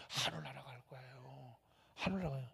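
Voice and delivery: very soft, intimate reply; hushed answer. Real, not acted. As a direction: answer softly as a secret. Soft answer to own question.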